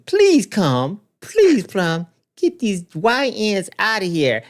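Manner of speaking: a lightly voiced desperate plea; pleading. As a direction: beg them to come, hammed up. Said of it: "He's pleading".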